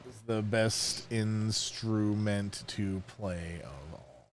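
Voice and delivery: put-on very slow, quiet old man voice. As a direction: feeble grandpa mumbling it back. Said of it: "gonna be hard to do an old man voice".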